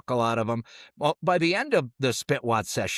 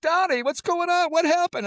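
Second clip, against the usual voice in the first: high, loud worried teacher voice; teacher asking the sobbing boy what happened; concerned teacher; 5 dB louder than usual. Retold or imitated. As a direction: ask like an alarmed teacher. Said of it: "the teacher's like".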